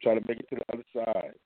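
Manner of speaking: muffled bad phone line; garbled like a bad connection; underwater. Real, not acted. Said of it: "You sound like you're underwater".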